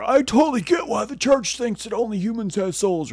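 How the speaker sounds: mocking a churchgoer, high and prissy; mock preachy believer. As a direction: parody someone agreeing with the church.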